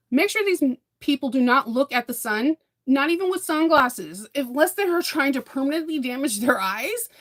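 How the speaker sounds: rising urgent plea to parents. Real, not acted. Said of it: "urgent warning to parents".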